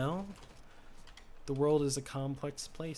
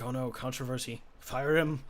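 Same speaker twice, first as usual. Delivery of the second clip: mock-panicked bosses, louder on the last words; mock panicked studio; 4 dB louder than usual. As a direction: imitate a flustered studio snapping to a decision. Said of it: "Disney was like".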